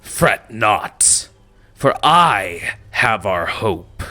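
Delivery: Goblin King. Acted. Goblin King calming his confused goblins, mildly. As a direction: reassure the crowd like a brutish king. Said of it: "And he goes".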